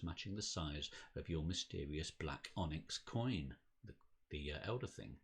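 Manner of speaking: measured dramatic game narration; storyteller reading aloud; story narration. A narrator's reading. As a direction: read it out like an unfolding mystery. Reads the game's story text.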